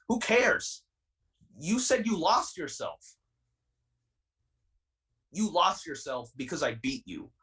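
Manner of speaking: getting heated. Real, not acted. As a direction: let real frustration push the pitch up as you vent. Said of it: "I'm sorry I'm getting heated".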